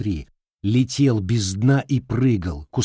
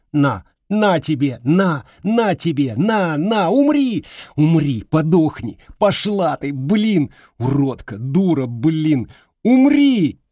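much higher, louder screaming, peaking on умри; raging screams; 8 semitones higher, 6 dB louder than usual. Acted. Boy alone, screaming curses while trampling flowers, much higher and louder. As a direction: scream it out until it cracks.

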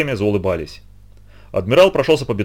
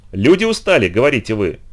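sneering mockery. Boss mocks worker's complaint.

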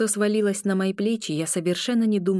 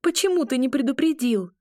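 higher, louder cry of reproach; a higher, louder shout of reproach; 7 semitones higher, 3 dB louder than usual. A narrator's reading. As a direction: fling the question at him. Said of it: "выкрикнула я".

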